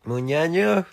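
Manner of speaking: high, loud rising catchphrase; playful shout. Pretend. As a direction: call it out high, like a question.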